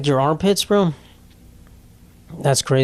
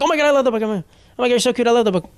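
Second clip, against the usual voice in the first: high, breathless fake fan gush; mock gushing; 8 semitones higher, faster than usual. Mocking a guy lurking in the fantasy section, high gush.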